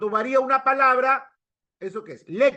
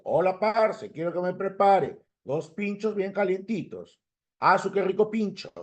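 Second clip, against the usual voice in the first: Colombian. Acted. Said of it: "en Colombia".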